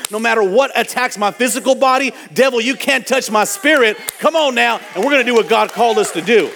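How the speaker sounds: a resolve that swells into a rally cry; determined declaration building to a shout. Retold or imitated. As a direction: vow it, rising to a shout against the devil. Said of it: "It's like".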